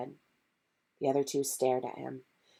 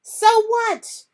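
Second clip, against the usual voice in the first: much higher, louder shout; 9 dB louder than usual. Acted. Harry shouting back at his friends, loud and high. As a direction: yell it back defiantly. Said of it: "he shouted".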